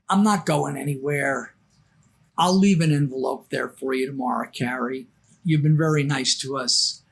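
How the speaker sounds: low, unhurried reassuring quote; calm reassurance. Retold or imitated. Voicing Danny reassuring the narrator.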